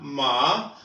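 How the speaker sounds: माँ को चीनी ma की तरह, नीचे सुर में; माँ का प्रश्नवाचक कण, छोटा और धीमा; Chinese ma. Shown as a demonstration. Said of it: "एम ए को कैसे प्रोनाउंस किया जाएगा?". (चीनी ma का उच्चारण)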